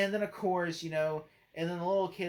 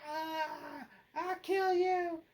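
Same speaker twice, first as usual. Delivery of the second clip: much higher, slow hammed-up vampire threat; vampire snarl; 12 semitones higher, much slower than usual. Vampire lunging at the boy, hammed-up slow threat. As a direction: drag out a mock monster threat. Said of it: "And he goes".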